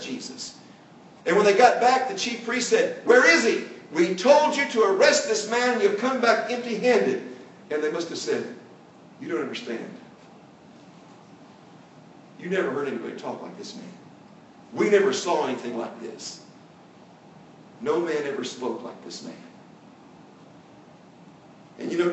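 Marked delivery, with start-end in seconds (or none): 3.0-7.2 raised, higher demanding voice; mock scolding priest, pitched up and louder; angry demand. Chief priest scolding the officers, raised and demanding. 9.2-19.3 much softer, lower, hushed; hushed wonder, voice dropped low; awed reply. Acted. Officers telling the priest in hushed, awed wonder.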